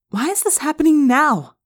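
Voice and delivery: high-pitched, insistent question; demanding girl. A narrator's reading. Rachel asks the group why, demanding. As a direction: voice Rachel high, pressing for an answer.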